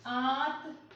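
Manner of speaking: "आंत" held open, lightly nasalised; chandrabindu pronunciation. Shown as a demonstration. Teacher repeats for students practising chandrabindu, open "आंत". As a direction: let "आंत" come mostly through the open mouth. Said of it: "यहाँ पे आप उच्चारण कर रहे हो ना".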